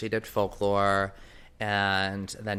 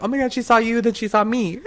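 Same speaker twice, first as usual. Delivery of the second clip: high, loud squeal, laughing at the end; freaking out; 12 semitones higher, 5 dB louder, faster than usual. Retold or imitated. Fan telling a friend the singer saw them, squealing. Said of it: "I'm like".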